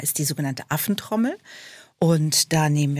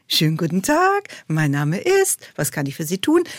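artificially singsong hotline greeting; chirpy call-centre agent; customer service voice. Retold or imitated. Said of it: "wie in seiner Hotline".

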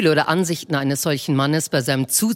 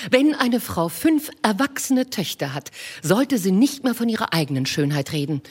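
coy wife. Acted. Mrs Bennet voiced.

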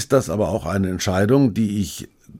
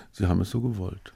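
muttering into beard; 8 dB quieter than usual. Pretend. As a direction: mumble it half to yourself. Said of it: "mir in den Bart murmeln".

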